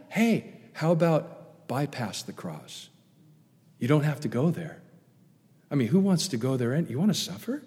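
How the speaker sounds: soft, casual tempter; lightly voiced devil offering an easy way out; Satan's suggestion. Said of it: "Satan's sinful suggestion".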